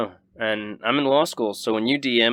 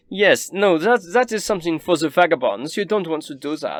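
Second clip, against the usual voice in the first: snooty noble; 6 semitones higher than usual. Acted. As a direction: scoff at the vagabonds. Noble answers the guest.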